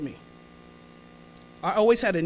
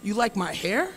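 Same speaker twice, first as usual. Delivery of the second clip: calmly. Retold or imitated. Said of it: "And I say calmly".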